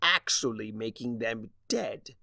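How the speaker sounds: a sneering chaos spirit taunting; Discord voice. Acted. Discord taunting Starlight face to face, sneering.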